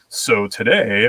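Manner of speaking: put-on mainstream radio voice; corporate radio voice. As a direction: imitate a smooth corporate interviewee. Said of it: "try to sound like it was, like, corporate radio".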